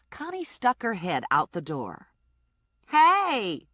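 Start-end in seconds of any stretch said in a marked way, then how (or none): 2.9-3.7 high, loud call; yell. Acted. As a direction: call out to the car. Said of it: "she yelled".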